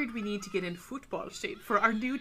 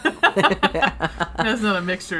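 slow and louder in disgust; slow disgusted drawl; 9 dB louder, much slower than usual. Real, not acted. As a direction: draw it out, grossed out.

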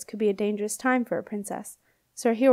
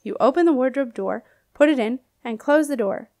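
put-on hearty old knight, louder and brighter; old knight ghost; 3 semitones higher, 5 dB louder than usual. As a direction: greet the princess like a jolly old soldier. Knight punchline.

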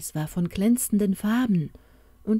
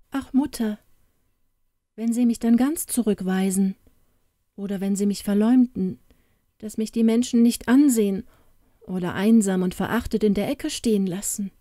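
leicht gespielte Märchenfigur, gekränkt; wehmütig klagendes Märchen; 4 semitones higher, 5 dB louder than usual. Acted. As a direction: mit einem Hauch von Klage sprechen. Märchen fears rejection. (leise angedeutete Klage einer gekränkten Tochter)

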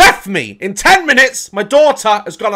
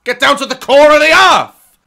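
louder, higher outraged sarcasm; exasperated dad; 9 semitones higher, 9 dB louder than usual. Retold or imitated. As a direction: balk at the homework request. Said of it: "I'm like".

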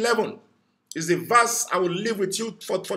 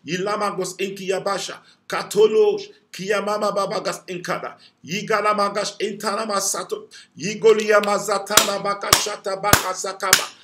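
rapid fervent glossolalia; praying in tongues. Real, not acted. Preacher breaking into tongues against the haters. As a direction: pour out tongues in intercession.

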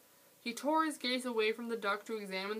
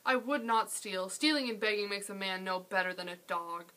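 respectful but proud; 4 dB louder than usual. Acted. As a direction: stand up for yourself politely. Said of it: "He kept his voice respectful, but his words were proud".

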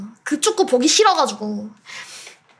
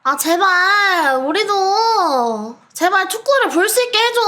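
pleading shout; 6 semitones higher than usual. Real, not acted. Pleading with team. (애원하는 외침)

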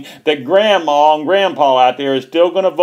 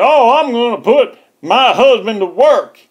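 higher, louder mock politician voice; mocking Hillary; 6 semitones higher, 4 dB louder than usual. Mocking the candidate's speech to viewers, a mild higher mock voice. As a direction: lightly ham up a sneering fake-accent politician. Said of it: "they can pretend to have a fake accent".

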